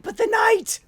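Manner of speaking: high, loud mock wail of a dreamy girl; dramatic girl. Retelling the movie, mocking the strange girl's loud wail. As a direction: overplay her gasping about the night.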